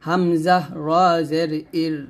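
ইর ending in a light, unrounded r; thin ra. Shown as a demonstration. Teacher contrasting thin ra with thick, light ending. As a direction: spell it out, keeping the r of ইর thin. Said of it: "এখন পাতলা করবেন".

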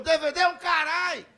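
playful outburst of indignation; mock indignant retort. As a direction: throw the offer back, loud and indignant. Acted rebuff from old lady.

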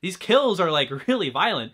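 half-laughing, half-stunned at the gore; laughing amazement. Retold or imitated. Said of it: "I was like".

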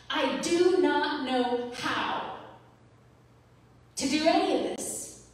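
tearful. Real, not acted. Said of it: "I'm tearing up right now".

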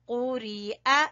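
कुरिया with a light glottal catch before the final "a"; hamza, not ain. Shown as a demonstration. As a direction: end कुरिया on a clean hamza "a". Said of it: "ये हमजा है". (कुरिया के आख़िर में हमज़ा की साफ़ आवाज़)

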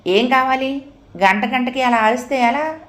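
loud question. Acted. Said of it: "గట్టిగా అడిగింది". (గట్టిగా అడగడం)

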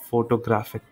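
फोटोग्राफिक as fo-to-GRAF-ik; stress on third syllable. Shown as a demonstration. Teacher re-demonstrating word stress, stressed GRAF. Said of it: "ग्राफिक में हमने ज़्यादा stress दिया".

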